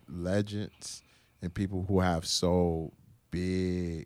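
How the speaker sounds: "legends" said with a soft, dropped final sound; accent on legends. Real, not acted. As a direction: let the Puerto Rican accent slip out on "legends". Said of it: "Say that word again".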